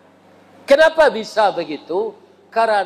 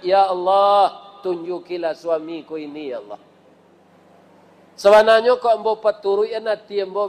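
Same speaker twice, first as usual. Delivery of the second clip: wife's prayer. Acted. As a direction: murmur it to God, humbly.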